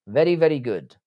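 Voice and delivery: a slight slip into an Indian accent; lightly Indian-accented approval; partly Indian accent. Real, not acted. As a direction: let a hint of Indian accent creep in. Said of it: "I said that in a partly an Indian accent".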